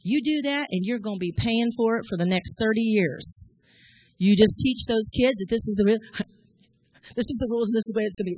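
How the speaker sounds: lightly voiced mama laying down the law; mother warning her child, mildly stern; stern mom quoted. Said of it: "my mama looking at me and going".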